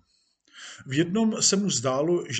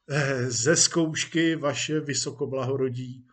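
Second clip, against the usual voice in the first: respectful, friendly. Acted. Actor answers the police chief, respectfully. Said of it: "s tváří přátelsky úctivou".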